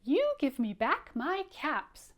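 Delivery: acted finger-wagging scolding; scolding peddler. Shown as a demonstration. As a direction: model the peddler's telling-off for children. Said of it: "like he did".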